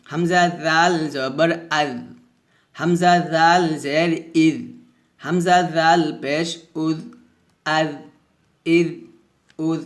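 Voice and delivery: tongue-tip to upper teeth, keep জ thin; slow spelling with light "dh" endings; thin dhal. Shown as a demonstration. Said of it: "এভাবে পাতলা হবে".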